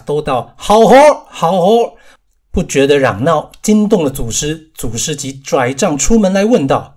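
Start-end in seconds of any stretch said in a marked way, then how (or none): 0.6-1.9 loud, high delighted cheer from the crowd; cheering laughter. A narrator's reading. Disciples clapping and laughing at Wukong's trick, loud cheering. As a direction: cheer him on, bursting with delight. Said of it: "呵呵大笑".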